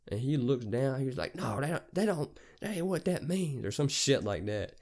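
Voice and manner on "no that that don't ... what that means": high-pitched mimicry of a stubborn man; mock his feeble protest; put-on voice, high and protesting; defensive driver.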